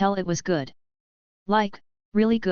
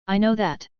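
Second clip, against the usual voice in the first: huffy; 2 semitones higher than usual. A narrator's reading. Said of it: "Toru huffed".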